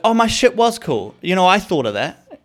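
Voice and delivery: high, loud protest; indignant whine. Retold or imitated. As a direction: complain like you were robbed. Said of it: "And I was like".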